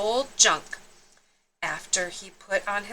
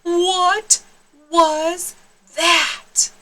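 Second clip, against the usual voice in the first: high, loud startled ask; surprised, louder; startled question; 8 semitones higher, 6 dB louder, much slower than usual. Acted. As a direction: jump at your own reflection. Startled by the mirror.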